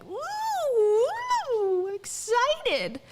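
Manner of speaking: hammed-up hype for a sales crowd; Rachel Hollis's sales mode. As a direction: whoop up fake excitement, very slowly stretched. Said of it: "in sales mode".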